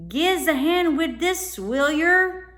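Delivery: high, loud cockney urchin; a scruffy cockney lad calling for help; cockney boy. A narrator's reading. Boy from the boat asks the children for help, high cockney urchin voice.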